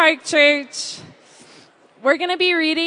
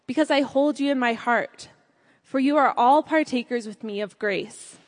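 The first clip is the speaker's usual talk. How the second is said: scripture reading. Acted. Reads scripture aloud in church.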